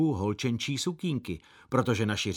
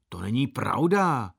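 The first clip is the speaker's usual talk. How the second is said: a touch of offence, slightly louder; offended; 3 dB louder than usual. Acted. Big brother correcting a passing gentleman, mildly offended. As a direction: protest mildly, hurt pride. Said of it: "odvětil Láďa uraženě".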